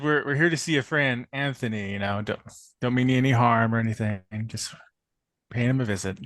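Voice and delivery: put-on casual, light Midwestern accent. Player repeats the visit excuse to the doorman, Midwestern accent. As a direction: explain it in a mild Midwestern accent. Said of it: "what you said in your Midwestern acc".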